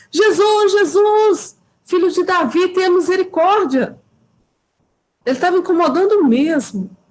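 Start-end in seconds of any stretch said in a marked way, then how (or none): 0.1-4.0 put-on shouting, repeated calling out. Retelling how the blind man cried out to jesus: imitating someone shouting. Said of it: "E começou a gritar".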